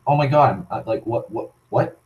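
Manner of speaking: fast, flustered imitation of a panicking driver; hammed-up nervous driver; mock panic. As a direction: stammer it out like someone caught off guard. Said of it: "They're like".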